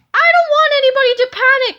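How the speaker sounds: big loud superhero cry; heroic shout. A narrator's reading. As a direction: announce it to the whole stadium. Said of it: "Captain Underpants shouted".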